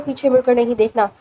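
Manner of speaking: a lightly voiced boss, low and cold; a hint of a menacing boss, low command; cold boss's order. Cold boss orders his men.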